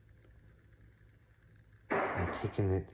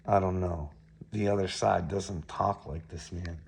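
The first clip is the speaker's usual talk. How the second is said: normal talking voice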